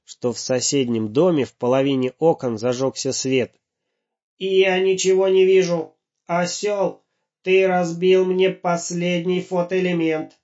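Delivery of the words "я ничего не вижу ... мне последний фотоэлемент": robot voice. Acted. Robot Gosha complains in despair.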